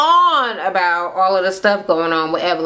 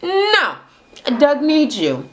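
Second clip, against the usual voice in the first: high fake-sweet refusal; 7 semitones higher, much slower than usual. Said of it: "out and out".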